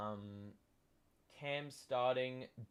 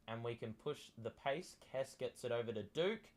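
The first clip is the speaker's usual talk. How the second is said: sports commentary. Acted. Live game play-by-play.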